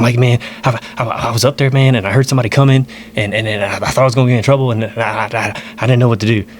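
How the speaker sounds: imitated nervous stammer; freaked out. Uncle explaining himself to his nephew, freaked-out stammer. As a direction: stumble over the excuse as if rattled. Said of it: "he's, like, freaked out".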